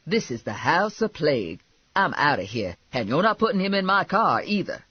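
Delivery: disgusted Lula. Acted. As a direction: lay down the law, fed up.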